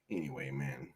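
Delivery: breathy whispered anyway; whispered anyway, moving on. Real, not acted. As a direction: drop it under your breath.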